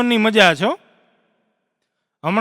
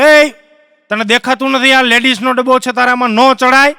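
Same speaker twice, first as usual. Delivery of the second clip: lightly voiced stern ticket checker; mock scolding; 2 semitones higher, 4 dB louder than usual. Ticket checker catches man in ladies' coach, mock scolding. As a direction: tell off a passenger, mildly hammed-up.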